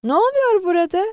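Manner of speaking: loud, high questioning call; stern demand. A narrator's reading. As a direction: demand to know what's happening. Controller demands an explanation.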